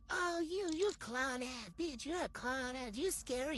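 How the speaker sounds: high-pitched imitated taunt; mock jeering rival. Rival texts her insults, mock jeering.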